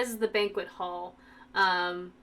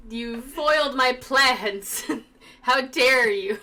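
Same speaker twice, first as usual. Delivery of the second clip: mock outrage; 6 dB louder, slower than usual.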